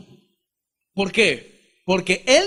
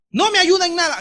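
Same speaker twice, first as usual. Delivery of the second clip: resentful complaint; 11 semitones higher, 5 dB louder than usual. Retold or imitated. Retelling his resentful thought.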